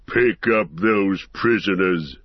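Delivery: shouting. Acted. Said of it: "shouted Ugluk".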